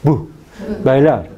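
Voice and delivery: "bu" and "bailar" with lips meeting on the b; oclusiva b. Shown as a demonstration. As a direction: pop the b of "bailar". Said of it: "Hay contacto entre dos labios".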